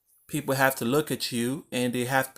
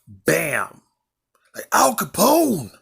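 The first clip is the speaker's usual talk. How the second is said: whispered reveal, rising into a hiss of mock drama; dramatic whisper; 3 semitones higher, 5 dB louder, slower than usual. Coaching listeners, whispering a mock Al Capone reveal. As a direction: whisper it like a gangster's secret.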